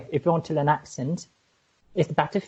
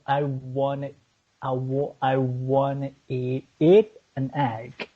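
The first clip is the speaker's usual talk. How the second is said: slow, halting stab at an American accent; careful, slow American accent attempt; 2 semitones lower, slower than usual. Shown as a demonstration. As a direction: try American, drawing out each word. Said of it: "Kiki speaking an American accent".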